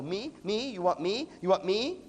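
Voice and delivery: questions swooping up on each "me"; eager surprise. Acted. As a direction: imitate people perking up at their names. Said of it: "their heads come right up".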